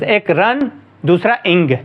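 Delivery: "रन" and "इंग" said as two separate syllables; syllable breakdown. Shown as a demonstration. Teacher counting syllables for students, "रन" and "इंग" separated. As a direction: split रनिंग into रन, then इंग. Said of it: "रनिंग में दो syllables".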